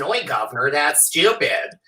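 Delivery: mock American accent. Shown as a demonstration. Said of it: "if it's an American person".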